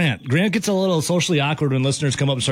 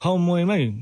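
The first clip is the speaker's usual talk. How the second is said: put-on Aussie accent; 4 semitones higher than usual. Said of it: "What's wrong with my accent?".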